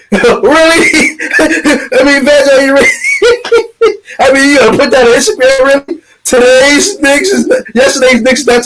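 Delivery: high, laughing and incredulous; laughing disbelief. Real, not acted. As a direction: laugh through the words at the absurd post. Laughing at a rapper's post.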